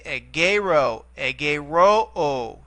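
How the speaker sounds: egero, egeroo, drawn out slowly; principal parts recited. Shown as a demonstration. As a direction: egeroo with the final oo stretched long. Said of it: "teacher reciting principal parts".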